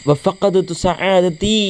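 slow lament; mournful recitation. Acted. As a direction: stretch the words as a boy mourning his mother. Reciting boy's grief.

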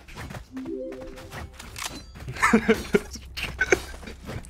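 long, wheezing, mostly voiceless laugh; breathy laugh. Real, not acted. Streamer after joking about his accent, wheezy laughing. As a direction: laugh softly until it turns to wheeze.

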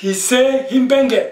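slow repeat of "Hissé Himbenge" with "Himbenge" falling at the end; careful model pronunciation of "Hissé Himbenge"; Bassa word demo. Shown as a demonstration. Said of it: "on va dire".

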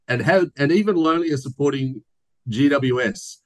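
put-on reading a fan's letter in a light New Zealand accent; a Kiwi lilt put on for laughs, only lightly done. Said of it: "I'm gonna do it in my New Zealand accent".

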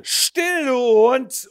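high loud snarl; a drunk father yelling; drunken roar. Acted. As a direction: snarl at the dog. Drunk man yells.

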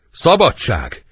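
high, loud cry for freedom; shouted cry. Acted. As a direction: shout it out theatrically. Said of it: "Otto kiáltva".

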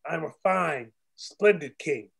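fine and splendid each leaned on hard; stress on fine and splendid. Shown as a demonstration. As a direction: hit "fine" and "splendid" with weight. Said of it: "I stress the fine. I stress the splendid".

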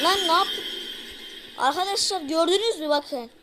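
loud, alarmed shouting; loud panicked outburst; frantic yelling. Real, not acted. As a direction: cry out as it kills you. Being killed in game.

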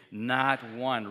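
NOT one, said loud and firm; preacher urges an emphatic response, loud. Shown as a demonstration. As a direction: punch "Not one" with force. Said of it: "Say it emphatically".

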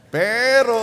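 a loud, high turn in the sermon; emphatic but. Real, not acted. Preacher turning the point with a loud but. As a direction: hit the word hard and high.

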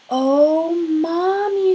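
put-on a girl thrilled to spot the bear; excited little girl. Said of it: "she said".

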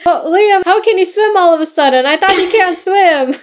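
high-pitched questioning play voice; high, incredulous toy-character chatter; puzzled doll character. Pretend. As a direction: quiz a friend in a high doll voice.

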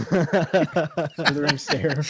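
very slow laughing villain line. Acted. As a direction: drag it out, grinning villain. Villain announces attack again.

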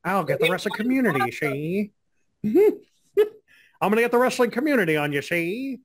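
lightly voiced 1940s mobster with no power; a hint of a tough-guy gangster threatening, see; Dave Meltzer impression. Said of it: "that's my Dave Meltzer impression".

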